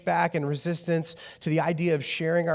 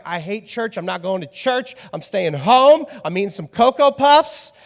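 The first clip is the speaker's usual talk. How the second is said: put-on whiny kid; 4 semitones higher, 6 dB louder than usual. Parent voices defiant kid.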